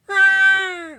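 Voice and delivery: sudden high loud shriek; dying creature cry. Acted. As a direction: yelp it out as the creature dies. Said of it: "cries out".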